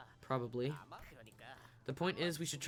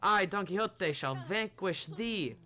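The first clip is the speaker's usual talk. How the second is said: loud, higher, slow knightly challenge; heroic battle cry; 4 semitones higher, 6 dB louder, slower than usual. Acted. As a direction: call out the monster like a storybook hero.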